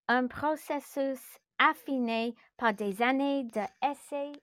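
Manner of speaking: measured read-aloud with deliberate pauses; story narration. A narrator's reading. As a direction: narrate phrase by phrase, carefully paced. (lecture de récit posée, phrase par phrase)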